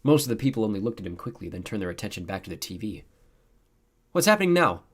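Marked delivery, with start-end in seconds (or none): 4.1-4.8 high, loud eager question. A narrator's reading. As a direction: ask it eagerly, voice lifted. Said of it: "asked eagerly".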